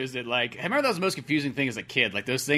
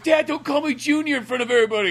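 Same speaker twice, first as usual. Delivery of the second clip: put-on much higher, louder whiny teen protest; embarrassed son; 11 semitones higher, 7 dB louder than usual. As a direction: whine it like an embarrassed kid. Voicing embarrassed Fox to his dad.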